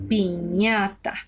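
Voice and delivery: "piñata" drawn out with I in the first syllable; fitting vowel I. Shown as a demonstration. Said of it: "busco una vocal que case". ("piñata" pausada, con I en la primera sílaba)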